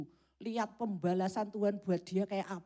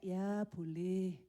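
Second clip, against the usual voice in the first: slow, lower, grudging yes; reluctant giving in; 3 semitones lower, 4 dB quieter, much slower than usual. Acted. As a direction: sigh it out, worn down by nagging.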